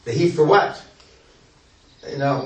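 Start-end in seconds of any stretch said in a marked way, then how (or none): 0.0-0.8 puzzled question. Retold or imitated. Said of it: "he said".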